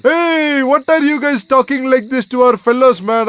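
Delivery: indignant tough-guy challenge; angry confrontation. Acted. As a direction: square up to them angrily. Gang quarrel, confronting the others.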